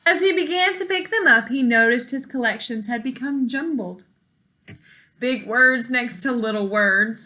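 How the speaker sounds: lively storybook read-aloud for a class; reading to children. Acted. Teacher reading a picture book to her class, lively storytime voice.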